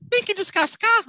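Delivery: high thin earnest voice. Retold or imitated. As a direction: say it in a tiny thin voice. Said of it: "ela fala fininho".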